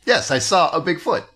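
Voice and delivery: mock machine-translation recital; imitating someone reciting translated text; stilted reading. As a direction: read it out stiffly, word by word. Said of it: "it sounds like he's reading the Google Translate results".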